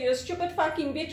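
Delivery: quick mock insult, tossed out; retold customer insult. Customer insulting call-center worker, quick retold jab. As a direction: imitate a rude customer, rattled off fast. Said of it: "You say".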